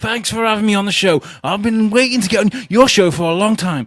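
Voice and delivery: very high, breathless, words run together. Continuing the impression of the acquaintance: Ollie impression, barely breathing. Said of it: "he doesn't have many breaths in between".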